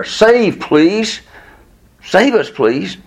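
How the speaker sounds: high, pleading cry for help; pleading prayer. Retold or imitated. Preacher voicing the crowd's prayer, high pleading. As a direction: beg to be saved, voice lifted high. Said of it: "it's like a prayer".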